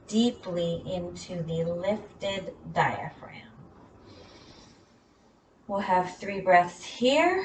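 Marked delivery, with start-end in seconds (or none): 0.1-3.5 whispering. Real, not acted. Breath cue in downward dog.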